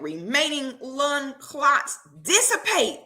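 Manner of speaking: slow, deliberate prayer rising to a loud finish; slow decree building to loud; slow fervent command. Retold or imitated. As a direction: command the clots slowly, then push it out. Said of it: "she said".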